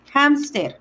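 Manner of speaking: "Hamster" in Spanish, stressed on the A; Spanish pronunciation. Shown as a demonstration. Teacher showing the word in Spanish, stressed A in "Hamster". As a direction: say "Hamster" with a falling tune and Spanish E at the end. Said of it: "there's an apostrophe on the A".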